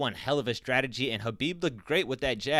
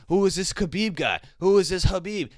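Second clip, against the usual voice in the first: mock disbelief; 6 semitones higher, 5 dB louder than usual. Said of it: "everybody was so surprised saying".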